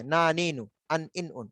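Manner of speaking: "না, নি, নু" with the tongue right up on the palate; palate-placed N. Shown as a demonstration. Teacher contrasting nun with lam, palate-placed N. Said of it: "তালুতে, একদম তালুতে".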